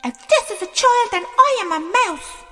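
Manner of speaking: high, loud sarcastic little king; rude disbelief. Acted. King doubting the bard, rude and loud. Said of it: "said Yobadan rudely".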